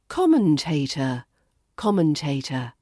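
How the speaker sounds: "Commentator." with a soft schwa ending; "Commentator." COM-men-tay-tuh, end softened. Shown as a demonstration. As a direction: start with COM, let the end fade. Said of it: "the final tater is softer with that schwa ending".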